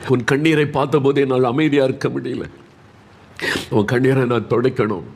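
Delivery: fervent, compassionate preacher; impassioned preaching. Acted. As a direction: plead with feeling as God moved by tears. Preaches God's compassion for Hezekiah.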